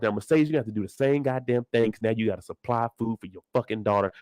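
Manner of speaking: low, heated in-character rant at Mercedes; lightly voiced ranting character. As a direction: scold her like a fed-up friend, then drop low. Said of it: "That was a little bit of Farrah, a little bit of Mercedes".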